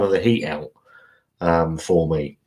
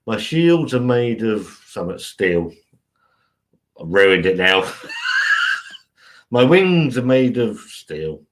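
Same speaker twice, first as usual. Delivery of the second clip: cartoon catchphrase; slower than usual. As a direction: boom the Batfink hero line. Reciting the Batfink cartoon catchphrase.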